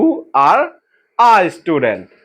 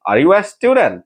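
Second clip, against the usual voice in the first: Are you a student? as a clear question, rising on "student"; question intonation; 3 semitones higher, much slower than usual. Shown as a demonstration. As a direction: make it sound like a real question. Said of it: "আমাদের ইন্টোনেশনে যেন বোঝা যায় যে এটা একটা question". (প্রশ্নের সুরে বলা)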